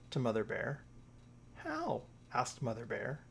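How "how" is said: very high, questioning yelp; a disbelieving one-word question; incredulous. Acted. Mother Bear doubting her cub can reach the moon, high and incredulous.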